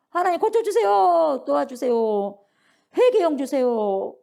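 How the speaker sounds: loud, drawn-out plea; crying out in prayer. Acted. Penitent begging God to heal him, loud slow cry. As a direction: call out to God, stretching each ending.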